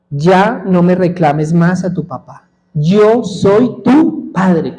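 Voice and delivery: slow, deliberate fatherly declaration; first divine answer. Retold or imitated. God answering a questioning son in prayer, slow and deliberate. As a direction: draw out each word of the answer. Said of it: "ese mismo pensamiento en otro tono de voz".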